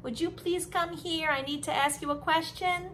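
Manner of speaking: a light mock-polite baby voice. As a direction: play a baby asking far too politely. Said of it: "Are they going to say".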